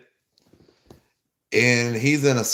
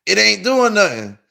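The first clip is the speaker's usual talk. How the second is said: higher, louder impatient whine; impatient complaint; 9 semitones higher, 4 dB louder than usual. Retold or imitated. Teller whining to friend that the drug does nothing. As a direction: complain it isn't working.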